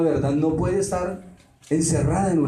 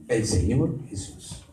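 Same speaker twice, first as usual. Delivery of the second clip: "El Señor Jesús" lower, softer and slow, each word weighed; lower, softer and slow, "El Señor Jesús" held with reverence; reverent title; 6 semitones lower, 5 dB quieter, slower than usual. Shown as a demonstration. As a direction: say "El Señor Jesús" with hushed awe, drawing it out. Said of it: "tiene que decir".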